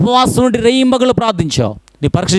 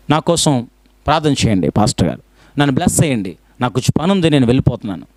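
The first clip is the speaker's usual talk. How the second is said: offhand stylish request; 6 semitones lower, faster than usual. Retold or imitated. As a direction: toss it off to the pastor, in a hurry to leave. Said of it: "స్టైలిష్గా వచ్చి".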